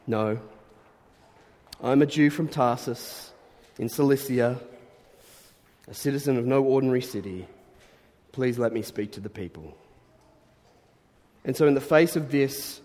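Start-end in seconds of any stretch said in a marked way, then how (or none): 1.8-9.8 composed, measured quoted answer, softening at the end; quietly self-possessed; calm, cool reply. Acted. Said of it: "Very cool, very calm".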